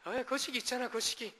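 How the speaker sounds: fumbling Jeolla speaker groping for a word; Jeolla dialect. Retold or imitated. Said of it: "전라도 분들 이제".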